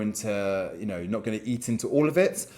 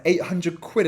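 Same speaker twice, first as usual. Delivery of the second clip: higher and louder, incredulous; shocked repeat; 8 semitones higher, 4 dB louder, slower than usual. Retold or imitated. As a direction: throw the number back in disbelief. Boss repeats the shocking amount.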